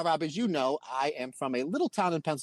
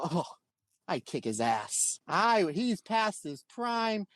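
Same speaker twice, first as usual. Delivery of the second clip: slow, drawn-out bragging, pitch jumping up; cocky boast; 3 semitones higher, slower than usual. Retold or imitated. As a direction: brag like an overconfident rookie. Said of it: "I was insanely cocky at that time".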